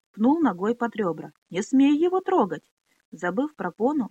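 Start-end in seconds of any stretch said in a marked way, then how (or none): 1.5-2.6 angry shout. Acted. Minolli defends the boy.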